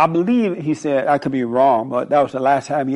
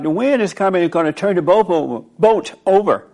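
alarmed disciples; 3 semitones higher than usual. Retold or imitated. Disciples warning Christ of the wind, rushed and alarmed. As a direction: warn him the boat will flip. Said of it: "They were like".

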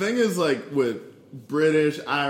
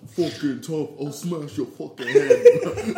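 drawn-out Irish tough-guy bluster; growing louder in a put-on Irish accent; mock Irish threat; 3 semitones higher, 7 dB louder, slower than usual. Retelling two Irish guys' video threat to someone, mock Irish. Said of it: "two Irish guys threatening someone".

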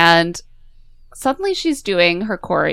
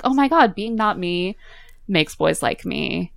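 giddy revelation; 3 semitones higher than usual. Retold or imitated. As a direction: act out a silly eureka moment, bubbling up. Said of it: "She's like".

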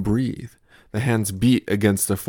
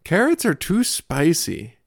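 put-on insistent toddler; 8 semitones higher, 4 dB louder than usual. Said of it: "insists my toddler".

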